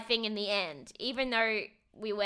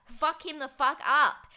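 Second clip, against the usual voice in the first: louder, higher, slow emphatic cheer; egging her on; 5 semitones higher, 5 dB louder, slower than usual. Retold or imitated. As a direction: retell cheering a friend on, hitting each word. Cheering Bella on in retold reaction.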